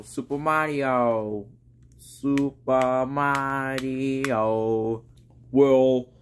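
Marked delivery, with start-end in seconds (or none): 0.0-5.0 slow soft drawn-out Super Mario; funny voice. Pretend. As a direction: stretch it out in a silly voice. Repeats name in a strange voice.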